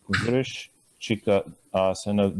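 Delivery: "Vrishchika asana" slowly, each sound clear; slow careful Sanskrit. Shown as a demonstration. Teacher naming the scorpion pose, slow careful Sanskrit. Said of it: "This is scorpion".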